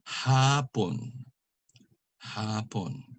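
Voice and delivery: HAPON with long HA, falling PON; penultimate stress. Shown as a demonstration. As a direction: stretch the first syllable of HAPON. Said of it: "accent is on the second to the last".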